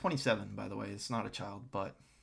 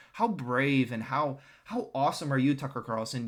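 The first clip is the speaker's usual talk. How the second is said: sarcastic praise; 3 dB louder than usual. Real, not acted. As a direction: lay the fake praise on heavily. Sarcastically scolds Carlson for bullying.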